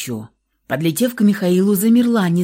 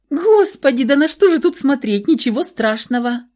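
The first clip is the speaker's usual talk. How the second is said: through tears; 7 semitones higher, 5 dB louder than usual. A narrator's reading. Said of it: "глотая слёзы".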